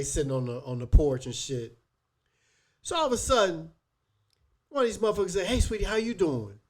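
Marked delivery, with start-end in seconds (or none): 5.5-6.6 high-pitched mock come-on to a passing woman; flirty greeting, imitated. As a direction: imitate a stranger hollering at her. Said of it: "I ain't like his tone".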